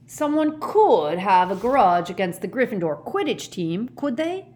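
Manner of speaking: anxious gentle giant asking. A narrator's reading. Hagrid fearing a grudge against the team, anxious. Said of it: "said Hagrid anxiously".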